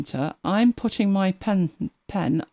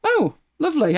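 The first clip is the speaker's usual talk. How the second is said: happy yay; 12 semitones higher, 4 dB louder than usual. Real, not acted. Star drawn successfully.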